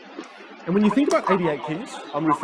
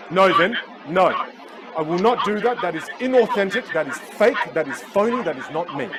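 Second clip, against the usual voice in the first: emphatic, separated protests; mock indignant refusal; 3 semitones higher than usual. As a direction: refuse firmly as an offended student. Voices a student refusing to try.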